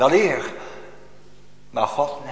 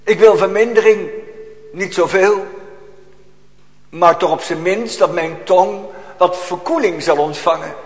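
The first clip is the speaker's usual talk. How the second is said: indignant demand; 3 semitones higher, 3 dB louder than usual. Retold or imitated. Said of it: "Maar hij zegt eigenlijk".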